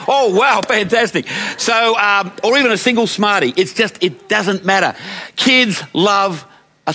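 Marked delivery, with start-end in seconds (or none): 0.1-1.3 high, bright mock delight of a child; delighted kid. Grandchild handed half-eaten chocolate, hammed-up delight.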